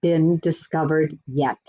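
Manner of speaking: put-on storybook voice for kids, gently paced; reading to children. A narrator's reading. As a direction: read it like a children's tale at story time.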